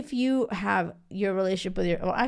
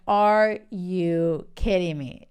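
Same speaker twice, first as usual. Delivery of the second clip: disbelief; 3 dB louder, much slower than usual. Retold or imitated. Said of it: "I was like".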